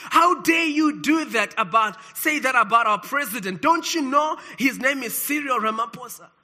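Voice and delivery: mildly indignant mock protest; retold outrage. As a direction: voice an outraged crowd, with restraint. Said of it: "rose up in rage and said".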